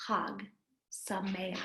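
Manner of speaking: "Chag Sameach" said slowly with a throaty ch; Passover greeting. Shown as a demonstration. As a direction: model "Chag Sameach" for children to repeat. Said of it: "here's something that we say when it's Passover".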